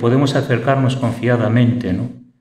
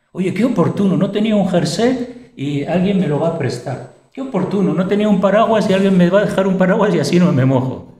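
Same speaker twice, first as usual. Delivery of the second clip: delighted exclamation; 6 semitones higher than usual. Retold or imitated. Preacher voices lucky everyday person.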